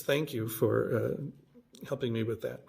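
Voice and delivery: mean every word of the thanks; earnest, unhurried gratitude; sincere thanks. Real, not acted. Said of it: "If you happen to see this".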